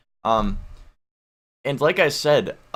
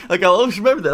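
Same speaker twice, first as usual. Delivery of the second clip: laughing; 8 semitones higher, 8 dB louder, much faster than usual. Real, not acted. Laughing while recalling the shock.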